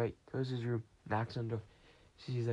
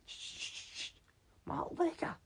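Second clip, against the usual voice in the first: excited find. Retold or imitated. Rummaging then excited find.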